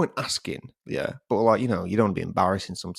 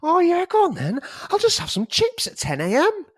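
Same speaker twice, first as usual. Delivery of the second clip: sarcastic; 4 dB louder than usual. Retold or imitated. Sarcastic mock acceptance.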